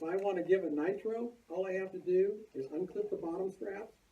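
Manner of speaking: muffled behind a mask; through a face mask. Real, not acted. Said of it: "I'm talking through the mask".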